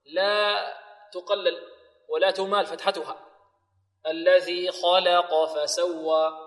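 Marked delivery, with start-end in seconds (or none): 4.1-6.3 slow recitation, heavy kha and qaf, light lam in "خلق"; "خلق" as khaw-la-qaw, measured and drawn out. Shown as a demonstration. Teacher models the verse, slow, heavy-light-heavy "خلق". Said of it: "واللام مفتوحة فتحا متوسطا".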